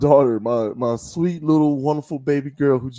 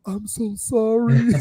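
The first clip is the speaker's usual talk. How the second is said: higher, slow mock-sheepish apology; embarrassed apology; 8 semitones higher, slower than usual. Mary Magdalene realizing it's Jesus, higher slow sheepish apology. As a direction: play it flustered and caught out. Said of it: "she was like".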